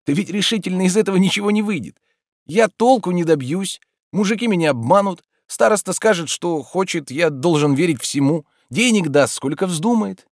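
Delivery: a hint of a fretful gentleman; lightly voiced Oblomov. A narrator's reading. Oblomov frets.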